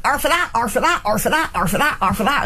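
lightly put-on West Country burr, rattled off repeatedly; West Country bar order. Cider drinker ordering halves at the bar, playful West Country accent. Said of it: "go to the bar and kind of".

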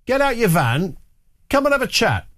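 high, mock-matey call back; hypothetical matey retort; casual shout back. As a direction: throw it back like a cheerful mate. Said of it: "had just shouted back".

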